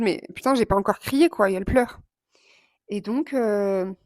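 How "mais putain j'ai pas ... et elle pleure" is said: louder, incredulous inner voice; exasperated inner thought. Retold or imitated. Vlogger voices her own disbelief when the director cries, louder. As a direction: let out the disbelief. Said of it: "j'étais en mode".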